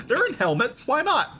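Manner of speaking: laughing. Real, not acted.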